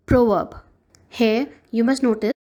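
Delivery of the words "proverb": "proverb" with a long O sound in the first syllable and no R in the second, like "prove-uh-b"; British pronunciation. Shown as a demonstration. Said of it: "So the British pronunciation is".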